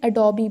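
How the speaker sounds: Adobe as a-doh-bee; correct pronunciation. Shown as a demonstration. Teacher correcting Adobe to a-doh-bee. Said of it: "गलत pronunciation है".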